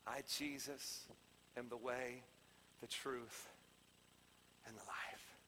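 low, slow-spaced, very soft declaration; quiet, solemn voice of Jesus; hushed solemnity. Acted. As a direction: drop to near whisper, pausing between phrases.

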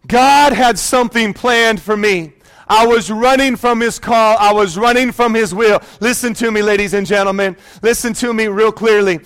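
rising preacher's appeal to the congregation; fervent sermon delivery; preaching. Acted. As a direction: preach it like a warning from the pulpit. Preaching the message.

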